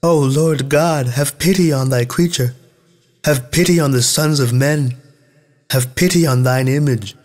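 sighing plea. A narrator's reading. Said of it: "sighed and said".

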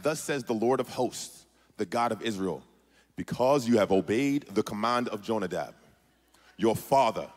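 stately, lightly put-on accent for the Lord; put-on official accent. Delivering God's word to the Rechabites, in an official accent. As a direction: read it in a grand official accent. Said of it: "I don't know why his accent is like that".

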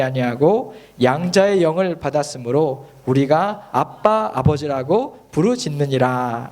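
slow, measured Bible recitation; deliberate, phrase-by-phrase scripture reading. Acted. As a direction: read the verse out slowly for a congregation. Reads scripture with congregation.

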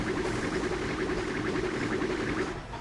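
drawn-out mock evil laugh; villain's laugh. Bowser laughs off the blimp, drawn-out villain laugh. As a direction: laugh long, without full voice.

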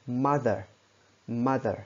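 "mother" said as two clear syllables; "mother" as a model word, falling at the end. Shown as a demonstration. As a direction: say "mother" alone, both syllables distinct. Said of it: "các bạn đọc hai âm thì gọi là hai âm tiết".

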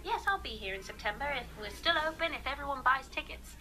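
light British accent. Real, not acted. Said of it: "ooh, more British accent".

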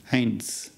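"Eins" with an "eye" vowel and a "ts" ending; German Eins. Shown as a demonstration. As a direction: say "Eins" as "ints" with a long "eye" sound. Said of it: "Notice that the E I sound here is an A sound".

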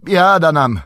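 high, loud wail of dismay; alarmed shout. A narrator's reading. Innkeeper hearing of Mordor, crying out aghast. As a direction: cry out in horror. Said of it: "krzyknął pan Butterbur".

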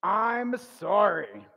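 loud, slow, drawn-out model apology; leading the congregation. Shown as a demonstration. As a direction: call it out slowly for everyone to repeat. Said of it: "turn to them and say".

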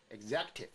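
executive with a very light opening e, stress on ZEC; barely touch the start of executive, still audible; light first syllable. Shown as a demonstration. Teacher shows the first sound stays but light, stress demo. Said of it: "前面的声音就非常轻".

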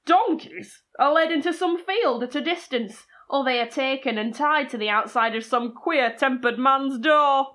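lightly put-on Yorkshire accent reading; Yorkshire-accented storyteller, measured. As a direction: read it out in a Yorkshire voice. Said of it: "That's my Yorkshire accent".

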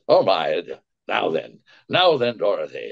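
lightly voiced absent-minded wizard; hint of a muddled old professor; Frank Morgan. Shown as a demonstration. Voice actor showing his absent-minded professor, lightly muddled. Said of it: "I wanna do him as Frank Morgan".

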